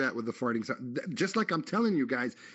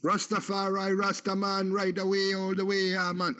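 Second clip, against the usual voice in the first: higher, hammed-up Jamaican accent; mock Jamaican accent; 7 semitones higher than usual. Host joking he speaks Arabic, mock Jamaican accent. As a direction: play a Rastaman in a joking Jamaican lilt. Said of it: "if I sound Jamaican".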